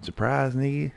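the game springing the trap on you; gloating mock announcement. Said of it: "That shit said".

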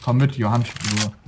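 furious gamer rant, pitch climbing; raging. Real, not acted. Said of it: "sorry für meinen Rage".

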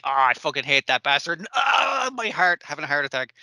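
hammed-up angry shout with a squeal; mock furious rant. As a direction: yell like a jealous rival clutching his heart. Acting out rival's rage.

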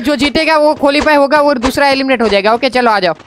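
announcing the rules. Real, not acted. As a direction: lay down the rules for everyone. Announcing fight rules to players. (ऊँचे सुर में नियम का ऐलान)

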